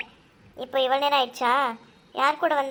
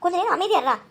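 exasperated hushing; 5 semitones higher than usual. Acted. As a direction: shut down the interruption. Hushing the one who interrupts.

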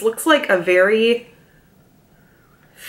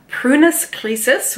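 Latin name "prunus creasus" said slowly in a stray foreign-sounding accent, pitch raised; sudden odd accent; 6 semitones higher, slower than usual. Real, not acted. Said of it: "I don't know where that accent came".

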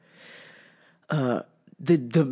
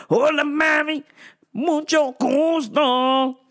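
higher, slow flirty "mucho gusto"; smooth pickup line; 9 semitones higher, slower than usual. Retold or imitated. Repeat of the flirty greeting.

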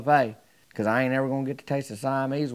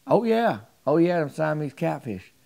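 higher, enthusiastic "Oh, yeah"; eager confirmation; 5 semitones higher, 4 dB louder than usual. Retold or imitated. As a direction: jump in eagerly, fully sure of it.

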